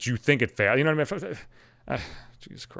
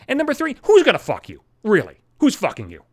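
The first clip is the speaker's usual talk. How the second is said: high, loud rant; 7 semitones higher, 6 dB louder than usual. Real, not acted. Ranting at married guy.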